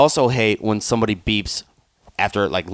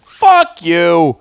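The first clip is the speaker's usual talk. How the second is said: higher and louder snapped curse; morning rage fuck you; angry retort; 7 semitones higher, 8 dB louder than usual. Retold or imitated. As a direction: spit it out in anger. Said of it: "I was like".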